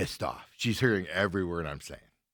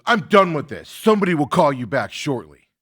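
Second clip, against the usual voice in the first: fed-up agent; 4 semitones higher, 7 dB louder than usual. Retold or imitated. Agent ends angry call.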